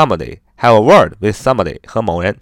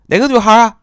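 curious question; 10 semitones higher, 4 dB louder, faster than usual. Retold or imitated. Friend asks which girl.

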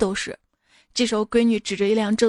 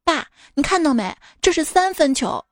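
lightly higher, eager boast to dad; proud kid boasting; 5 semitones higher, 3 dB louder than usual. Retold or imitated. Boy boasting to his dad about a three-pointer, eager. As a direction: show off the shot like a proud boy.

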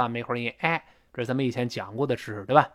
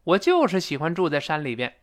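就是 raised, then falling; emphatic 就是. Shown as a demonstration. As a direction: lean on 就是. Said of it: "加强语气".

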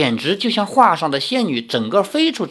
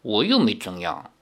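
low, soft aggrieved mumble; muttering; 6 semitones lower, 5 dB quieter than usual. A narrator's reading. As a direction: grumble under your breath, wronged. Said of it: "喃喃地说". (委屈地低声喃喃)

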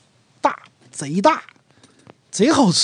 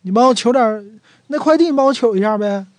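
casual request; 3 semitones higher, 4 dB louder, faster than usual. Retold or imitated. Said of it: "取什么东西？".

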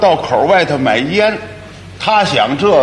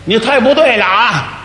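mock yelling; 5 semitones higher than usual. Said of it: "他冲我二哥嚷嚷".

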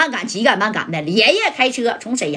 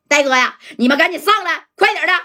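urgent shout; 5 semitones higher than usual. Acted. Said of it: "这三宝就喊了".

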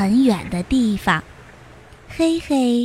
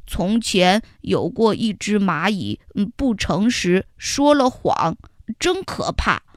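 solemn ant storyteller; 4 semitones lower than usual. Acted. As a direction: lower voice telling a scary tale. Xiaoyi tells the warning tale. (小易讲可怕的故事)

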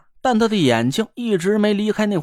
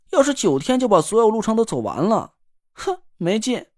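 sulky; 2 semitones higher than usual. Acted. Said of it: "好像挺不高兴的样子".

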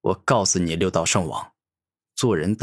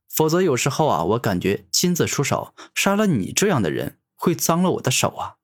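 sly, sneering taunt, pitched up; mocking; 5 semitones higher than usual. Gu Tianming taunts the dying king, mocking him. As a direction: toy with him as you mock. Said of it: "故意嘲讽着说道".

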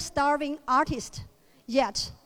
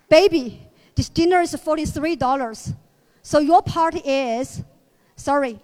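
louder, cheerfully splitting the bill; stingy American boyfriend; 4 dB louder than usual. Acted. Boyfriend tells his date her share of dinner, mock sweet. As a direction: sweet-talk while counting every cent.

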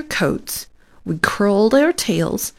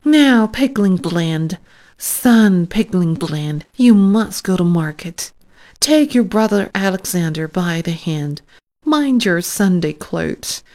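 mother's farewell. Acted. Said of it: "addressed those little pigs as follows".

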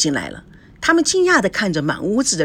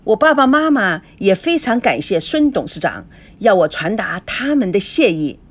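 fawning; 3 semitones higher, 4 dB louder than usual. Acted. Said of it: "高培志谄媚地说".

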